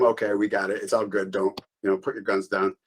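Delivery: soft, calm all-clear to the team; quiet officer calming his men; reassuring okay. Retold or imitated. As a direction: settle your squad down quietly. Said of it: "it was an okay to all the people behind him".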